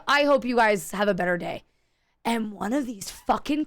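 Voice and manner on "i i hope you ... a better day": lower, cooler sarcastic goodbye; a sugary jab with a stammer; pointed farewell. Retold or imitated. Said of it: "Just like that".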